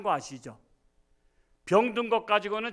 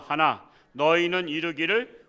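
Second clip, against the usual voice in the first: usual speaking voice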